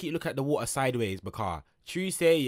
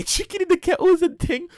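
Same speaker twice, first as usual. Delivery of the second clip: higher, cracking up; laughing; 14 semitones higher, 7 dB louder than usual. Real, not acted. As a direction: laugh through the words. Laughs about jail food.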